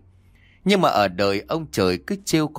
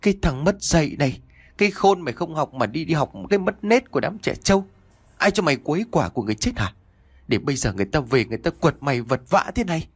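higher, fast angry scolding; scolding mother; 5 semitones higher, faster than usual. Acted. Mother berating her son for mocking the dead, angry scolding. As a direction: tear into the boy as his mother.

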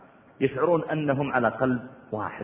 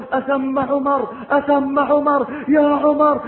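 higher, louder, urgent calls at the door; retold shout, higher and louder; 10 semitones higher, 5 dB louder, much slower than usual. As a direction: call out for Umar while banging. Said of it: "ويصيح".

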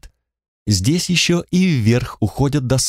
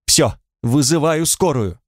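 cry out; 4 semitones higher than usual. Acted. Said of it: "Женщина вскрикнула".

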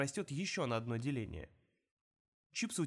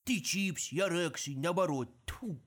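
loud, flustered dwarf outburst; furious spitting; 3 semitones higher, 4 dB louder, slower than usual. Acted. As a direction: spit in fury. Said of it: "Мульч в ярости сплюнул".

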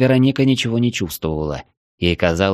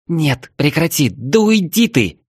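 high, louder, slow frightened cry; frightened pushing away; 8 semitones higher, 3 dB louder, slower than usual. Acted. Girl fending off Cap's cold hands, frightened cry. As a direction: shove him off in a panic.

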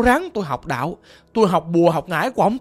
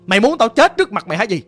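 a mildly raised, scolding father's voice; retold father's scolding. Caller imitates father cursing him, mild mock anger. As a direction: imitate the father berating his son, half-heartedly. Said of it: "Ổng chửi tôi vậy đó".

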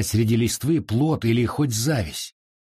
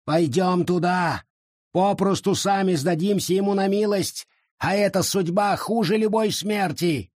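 fearful warning; 8 semitones higher than usual. Acted. Forest fearfully warns.

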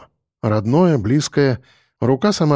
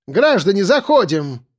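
higher, louder, nasal call of a train conductor; 7 semitones higher than usual. A narrator's reading. Conductor leans out of the carriage calling passengers in, loud and nasal. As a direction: twang it out like a fed-up conductor. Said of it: "Громко и противно прогнусавила проводница".

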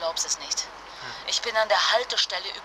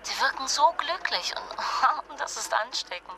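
slow, giggly delight; tipsy giggling; 5 semitones higher than usual. Acted. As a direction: let a laugh break into it. Angeheitert, lacht mitten im Satz. (angeheitert, mit Kichern)

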